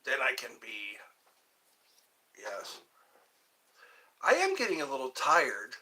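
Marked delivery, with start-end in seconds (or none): 0.0-2.8 whisper. Real, not acted. Practising words for the call.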